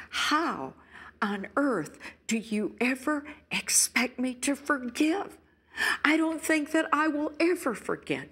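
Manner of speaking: pleading, anguished wife voice; a hint of a wronged wife crying out; betrayed wife. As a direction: voice the hurt, indignant spouse. Voicing a betrayed wife's anguish.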